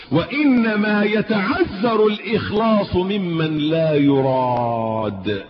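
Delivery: very slow, half-sung quote; slow recitation. Real, not acted. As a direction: savour each word like a treasured saying. Reciting a quotation slowly.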